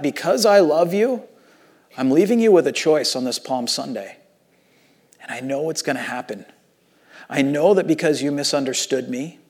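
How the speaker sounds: Jesus grieving over the city, hushed and heartbroken. Retold or imitated. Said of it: "it broke Jesus' heart here because he goes".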